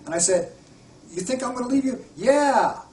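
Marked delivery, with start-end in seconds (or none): 1.1-2.0 gentle question. Retold or imitated. Gently questions inner child. 2.2-2.8 put-on child's voice. Child voice answers in story.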